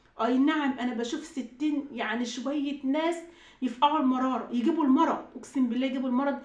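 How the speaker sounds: fed-up outburst with punched words; exasperated venting. Real, not acted. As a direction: vent loudly about people who make you sick. Venting about commenters who sicken her.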